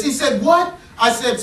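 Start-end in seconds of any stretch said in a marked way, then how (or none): 0.4-0.7 commander bark. Retold or imitated. Commander barks back.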